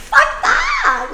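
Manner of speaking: high, loud, slow exclamation; defiant outburst. Real, not acted. Dismissing her old timid self, a high slow defiant outburst. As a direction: throw it off with defiant force.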